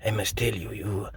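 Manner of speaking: a light mock French accent with whispered asides. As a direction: play a smug Frenchman fumbling for words. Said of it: "when you use the French voice".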